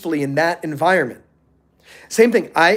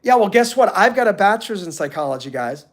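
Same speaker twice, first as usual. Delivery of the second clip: smug one-upping. Retold or imitated. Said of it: "and I go".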